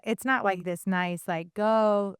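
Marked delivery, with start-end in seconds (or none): 1.5-2.1 gentle, polite little request; nicely. Retold or imitated. Showing how a nice command to dogs would sound, nicely. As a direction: ask it nicely, without yelling. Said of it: "you know, nicely".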